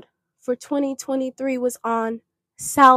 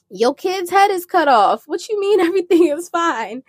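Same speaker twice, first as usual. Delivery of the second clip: higher-pitched, incredulous challenge to mom; retold incredulous protest; 7 semitones higher than usual. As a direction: protest in disbelief, as if retelling your own panic. Retold alarmed protest to her mother.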